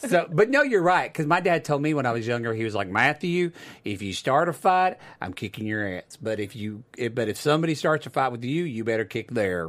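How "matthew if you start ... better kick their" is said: put-on slight Southern accent, lower and slower. Speaker quoting his dad's advice from when he was younger, in a little southern accent. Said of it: "Little Southern accent".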